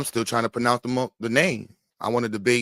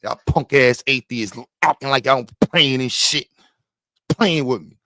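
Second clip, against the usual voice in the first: gangster voice; 5 dB louder than usual. Shown as a demonstration. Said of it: "You gotta come with the gangster voice".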